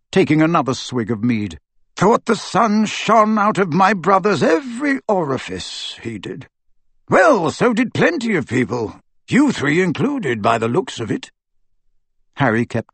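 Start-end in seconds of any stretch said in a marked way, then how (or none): 2.0-11.3 raised pitch, mildly mocking; scornful old wizard. Aberforth mocking his brother's admirers, scornful.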